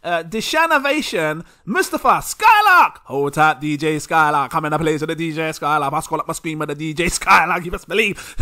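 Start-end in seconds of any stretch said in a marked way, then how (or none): 2.2-8.3 DJ hype shout. Pretend. Hyping up a DJ name.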